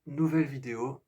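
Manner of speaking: voix éraillée après avoir crié; voix cassée. Real, not acted. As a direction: gorge usée, voix qui accroche. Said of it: "j'ai un peu la voix pétée". (voix éraillée d'avoir crié)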